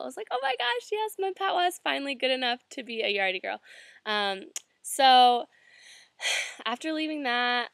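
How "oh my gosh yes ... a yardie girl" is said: much higher start, delighted; thrilled. Retold or imitated. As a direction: gush with joy at the compliment. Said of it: "I just felt".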